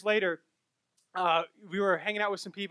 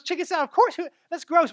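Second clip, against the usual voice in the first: disgusted; 8 semitones higher, 8 dB louder than usual. Retold or imitated. Disgusted at chicken salad.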